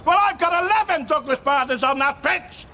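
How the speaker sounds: rally a doubting crowd with mild force; rousing speech. Acted. Manager defending his team to grumbling supporters, rousing speech.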